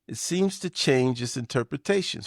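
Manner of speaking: ordinary talk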